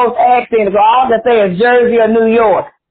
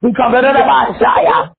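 prophetic preacher in full flow; fervent preaching. Real, not acted. Prophesies to prayer line.

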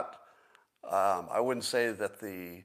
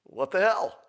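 a higher, louder, indignant bear voice; annoyed bear; 6 semitones higher, 4 dB louder than usual. Acted. Bear poked with a stick by a hiker, indignant. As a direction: play the bear, baffled and offended at the poke. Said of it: "And the bear goes".

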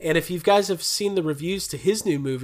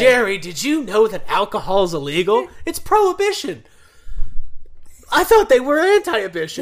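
much higher whiny sitcom voice; Seinfeld character voice; 5 semitones higher, 4 dB louder than usual. Acted. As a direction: play a frantic sitcom neighbor. Voicing Seinfeld character to Jerry.

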